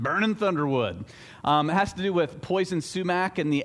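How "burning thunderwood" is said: light southern accent. Shown as a demonstration. Pastor repeating a Georgia saying, in a light southern accent. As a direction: try the phrase again with a hint of a Southern US accent. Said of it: "have to say that one with a southern accent".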